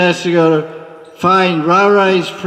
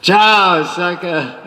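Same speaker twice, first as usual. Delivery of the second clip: Radharani sweet-talking; 3 semitones higher, slower than usual. Acted. Radharani voiced teasing the Manjaris.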